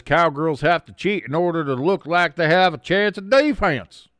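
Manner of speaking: put-on reading a chat line in a light Southern accent. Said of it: "I gave you a southern accent".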